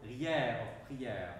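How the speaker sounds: "rière" of "prière" slowly drawn out, the syllables split; separated syllable. Shown as a demonstration. Teacher to singers on the diaeresis, "prière" split slowly. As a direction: pull "prière" apart into pri-ère, slowly. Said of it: "we have to separate the prière".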